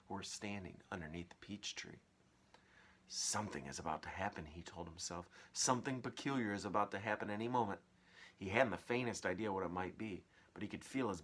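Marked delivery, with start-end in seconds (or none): 3.1-7.8 put-on fast, hushed boy's voice; lightly voiced boy. James telling himself something will happen, fast. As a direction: rush it under your breath.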